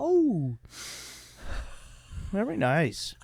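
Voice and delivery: put-on Asian accent. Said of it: "Yeah, you did. Like, you went".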